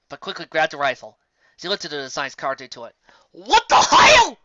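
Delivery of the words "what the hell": high, loud and slow; startled disbelief; surprised. Acted. Surprised at rifle.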